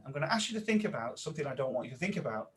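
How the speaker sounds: playful guided exercise, quick start. Shown as a demonstration. Trainer repeating the exercise, playful and guiding. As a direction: lead them through it, bouncy on boing. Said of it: "I'll say that again".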